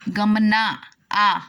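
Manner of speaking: slow, stretched "गमना आ" with a long held आ; drawn-out sandhi. Shown as a demonstration. Teacher to students, showing the sandhi, stretched slowly. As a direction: pull the vowel आ apart from गमना, very slowly. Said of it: "उच्चारण करो स्वर".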